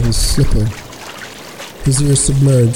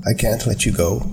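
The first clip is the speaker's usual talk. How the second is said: soft hushed plea; whispered; 3 semitones lower, 6 dB quieter than usual. A narrator's reading. Anna begging Chris not to go, hushed. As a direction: keep it barely above breath. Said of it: "she whispered".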